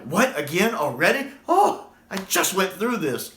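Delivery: a light Tom Baker impression, fed up; weary Doctor quote. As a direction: sigh it out like a tired Doctor. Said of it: "The way he says it".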